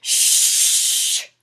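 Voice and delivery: hissed shush; sharp shush. Acted. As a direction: Bear hushes Mouse to hear the story, sharp shush. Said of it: "exclaimed Bear".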